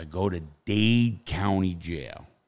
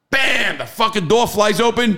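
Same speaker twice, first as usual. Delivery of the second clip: higher and louder, startled recounting; excited burst; 12 semitones higher, 6 dB louder than usual. Retold or imitated. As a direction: hit it like the door just slammed. Feds burst into the room.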